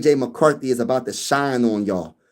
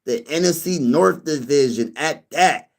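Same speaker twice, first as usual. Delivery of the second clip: imitating commenter; slower than usual. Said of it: "imitate with how he said it".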